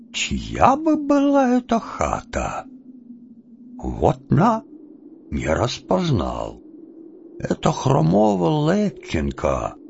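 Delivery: put-on old Cossack grumbling to himself, puzzled; slow, musing old man's voice; Chub muttering. Chub puzzles over the hut in the dark, muttering.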